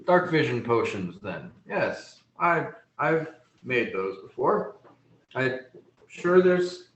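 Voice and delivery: musing gnome, pitch swooping up then settling; halting, pondering gnome apothecary with pauses between phrases; gnome shopkeeper. Acted. Gnome recalls potions for a customer, hesitant lilting voice.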